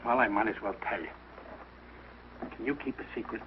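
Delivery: low, hushed lead-in to a secret; confiding. Acted. Confides surprise party to son.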